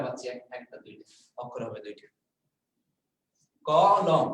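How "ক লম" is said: ক লম said as two clear beats, a little louder; split into syllables. Shown as a demonstration. Teacher repeating the syllables of কলম for the class, louder. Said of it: "এই যে আমি যেটা বলছিলাম".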